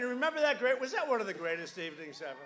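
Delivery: ordinary talk, nothing marked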